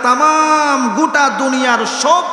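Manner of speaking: high, stretched-out emphatic cry; impassioned preaching. Real, not acted. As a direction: raise the pitch and draw out the key word. Preacher builds to emphatic climax. (উঁচু গলায় টেনে আবেগী ওয়াজ)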